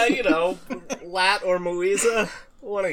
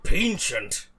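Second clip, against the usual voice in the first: slow, louder Scottish film star; Sean Connery; 4 semitones higher, 5 dB louder, slower than usual. Acted. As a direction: draw it out in a put-on Scottish accent. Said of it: "He would say".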